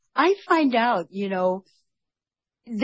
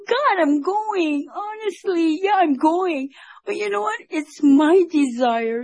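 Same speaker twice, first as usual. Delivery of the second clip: heartfelt vow; 8 semitones higher than usual. Retold or imitated. Telling God she is going to India, heartfelt vow. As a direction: relive the vow in a raised, slowed voice.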